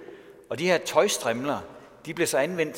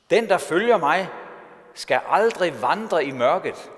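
loud, raised declaration; proclaiming shout; 4 semitones higher, 5 dB louder than usual. Retold or imitated. Preacher quoting Jesus at the festival of lights, proclaiming shout. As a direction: call it out to the crowd, slowing as it goes. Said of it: "stillede sig op og råbte".

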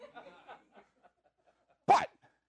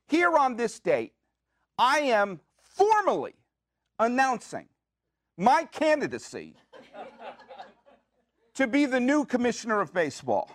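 formal announcement. Pretend.

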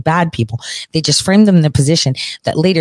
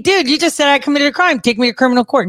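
higher-pitched, exasperated retort; indignant challenge; 8 semitones higher, faster than usual. Retold or imitated. Retelling how they challenged their accuser, indignant. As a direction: re-enact an indignant demand. Re-enacts own courtroom challenge.

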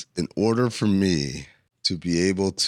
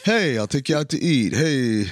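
Rodney Dangerfield; 5 semitones higher, slower than usual. Retold or imitated. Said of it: "Why are you becoming Rodney Dangerfield".

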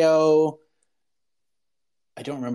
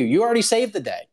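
mock team; 8 semitones higher, faster than usual. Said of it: "they're like".

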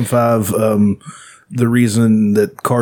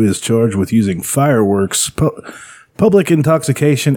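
mock newscaster reading a police item; deadpan news bulletin delivery; 2 semitones higher than usual. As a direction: read it like a local news anchor. Reads a news item aloud.

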